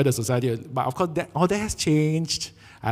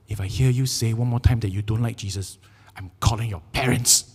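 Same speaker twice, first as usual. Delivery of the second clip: stern threat; 4 semitones lower than usual. Retold or imitated. Acts threatening the kid.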